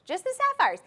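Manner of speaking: excited emphasis. Real, not acted. Jewelry host thrilled by the sapphire weight, excited high repeat. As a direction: squeal it out in delight.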